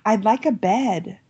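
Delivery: lightly voiced shy girl; shy child. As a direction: ask shyly like a small girl. Girl asks quietly.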